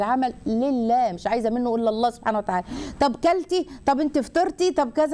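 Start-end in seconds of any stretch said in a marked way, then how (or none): 3.0-5.1 lightly acted higher-pitched questions; probing questioner. People quizzing a woman hiding her fast, lightly mimicked probing questions. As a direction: mimic someone pressing with questions, voice lifted.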